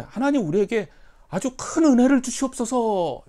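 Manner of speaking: prayerful plea. Retold or imitated. Believer praying for grace, high loud plea. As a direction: cry out to God. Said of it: "이렇게 할 수도 있는데".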